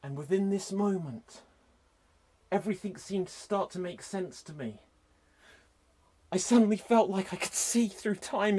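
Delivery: soft, dragged-out lines with long pauses; hushed slow-motion movie narration; slow-motion drama. Acted. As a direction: narrate as if time stood still. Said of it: "Slow motion action".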